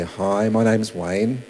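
unhurried, low-pitched hello to a stranger; ideal friendly introduction. Acted. Evangelist greeting somebody in the ideal version, slow and easy. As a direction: introduce yourself slowly, taking your time. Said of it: "That ideal looks like you go up".

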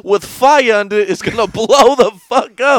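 loud, high Italian guy; outraged Italian, hands waving; Italian accent. Retold or imitated. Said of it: "an Italian dude".

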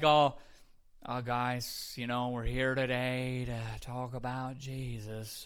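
slow, limp, lifeless preaching; mock dull preacher. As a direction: parody a preacher with no passion. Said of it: "we don't wanna be like".

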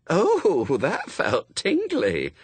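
put-on breathy, slow older woman; lightly voiced medium; Madame Tracy. A narrator's reading.

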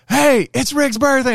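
high, slow sing-song announcing; mock announcement. The boss announcing his birthday to the team, sing-song. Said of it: "And, like, literally just".

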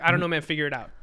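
high, loud toss-off over the shoulder; retold brush-off. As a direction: call it back while leaving, imitating.

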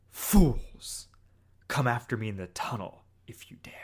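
villain whispers a fast taunt; megalomaniac rant. Retold or imitated. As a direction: hiss a lightly voiced villain dare. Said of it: "Just perfect villain monologue".

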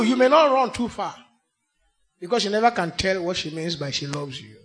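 ordinary delivery

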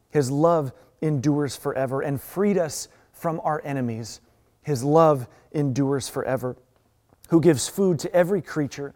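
measured scripture reading with pauses between lines; deliberate, emphatic call-and-refrain psalm recitation. Acted. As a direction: read it out as a congregational litany. Reads a psalm responsively.

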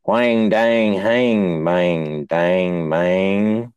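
slow nasal-free twang babble, drawn out; mock southern drawl. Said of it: "all that I heard them say was".

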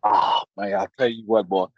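low gasped-out reaction to strong moonshine; breath taken away. Acted. Country man demonstrating a swig of good shine, breath taken away. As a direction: let the drink knock the wind out of you. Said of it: "it just take your breath away like this".

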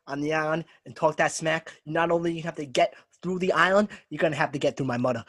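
tough-talking New Yorker; hammed-up New York islander; New York accent.

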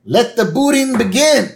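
hammed-up prime minister savouring the booting. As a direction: announce the punishment with relish. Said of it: "the Prime Minister goes".

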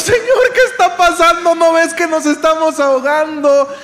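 loud, high-pitched cry for help; desperate plea. Acted. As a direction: act out believers crying out to God in panic. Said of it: "nosotros desesperados". (súplica desesperada a gritos)

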